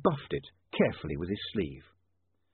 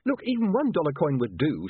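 patient explaining, slightly higher voice; 6 semitones higher than usual. A narrator's reading. Newspaperman explaining coins to bewildered dwarfs, patient. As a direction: explain it with forbearance. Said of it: "said William patiently".

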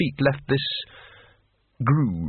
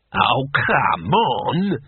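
exasperated; much slower than usual. Acted. Weary exasperated plea.

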